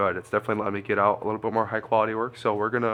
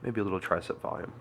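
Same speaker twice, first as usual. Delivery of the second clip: stuffy nose; congested sinus voice; blocked nose; 2 semitones lower, 6 dB quieter than usual. Real, not acted. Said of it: "If you couldn't tell, I'm a little, like, congested".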